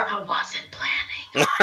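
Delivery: soft whisper under the breath. Whispering back to a voice in the character's head: whispering. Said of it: "I'm gonna whisper".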